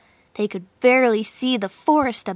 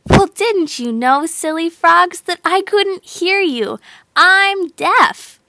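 proudly; 6 semitones higher, 4 dB louder than usual. A narrator's reading. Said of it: "Jill said proudly".

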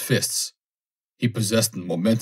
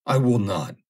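terrified refusal; 3 semitones higher than usual. Acted.

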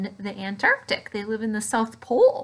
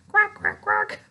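higher, louder duck quacks; loud, high quack after calling for louder; 10 semitones higher, 4 dB louder than usual. Shown as a demonstration.

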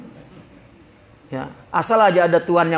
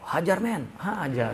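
sneaky hush; 7 dB quieter, slower than usual. Acted. Guest hushing his friend to dig in, sneaky hush. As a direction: urge him on under your breath. Greedy guest once host leaves.

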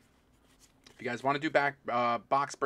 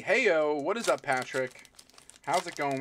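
loud greeting; 3 semitones higher, 6 dB louder than usual. Real, not acted. Greeting a viewer loudly.

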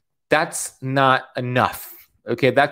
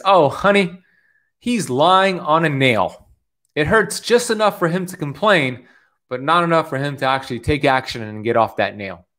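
put-on old lady voice. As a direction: lightly voice a kindly grandma explaining. Old lady answers boy in story.

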